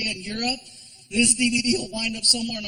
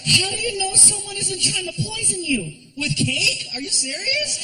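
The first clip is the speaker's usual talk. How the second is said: put-on girlfriend voice. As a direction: play the shocked girlfriend, pitched way up.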